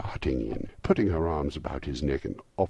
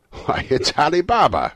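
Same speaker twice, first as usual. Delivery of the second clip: high, loud cry of delight; ecstatic exclamation; 13 semitones higher, 13 dB louder than usual. A narrator's reading. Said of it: "Scrooge exclaimed in ecstasy".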